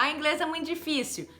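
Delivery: student being negative about English; mock negative. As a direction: sigh it out like giving up. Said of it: "em vez de falar".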